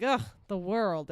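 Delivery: slow, fed-up sigh at the world; disgusted groan. Retold or imitated. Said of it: "and you're like".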